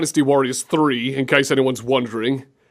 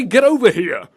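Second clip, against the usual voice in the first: louder, higher exclamation; punchy catchphrase delivery; Scorpion's catchphrase; 4 semitones higher, 6 dB louder than usual. Shown as a demonstration. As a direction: call it out with punch. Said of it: "Just say".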